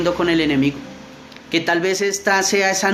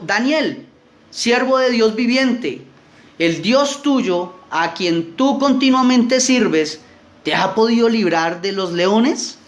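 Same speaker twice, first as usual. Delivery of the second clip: a touch of sorrow, slow and higher; sad voice; 5 semitones higher, slower than usual. A narrator's reading. Reading the king calling to Daniel, mildly sad and slow. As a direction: call out to Daniel in a worried, sad tone. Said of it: "con voz triste".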